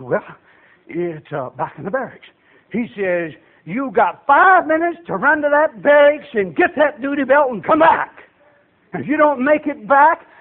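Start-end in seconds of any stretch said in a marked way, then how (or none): 0.0-2.3 low, much softer hesitant answer; sheepish recruit. Retold or imitated. Recruit confesses to the sergeant, sheepish and quiet. 3.6-10.3 lightly voiced sergeant, pitch raised; sergeant's order. Sergeant orders recruit back to barracks, lightly acted command.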